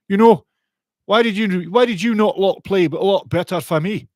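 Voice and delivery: a loud, hammed-up Scottish accent, a bit off; mock Scottish accent. Fired manager Stevie Evans watching on TV, in a shaky Scottish accent. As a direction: imitate a sacked Scottish manager in a rough Scottish accent. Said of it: "bit of a Scottish accent problem there".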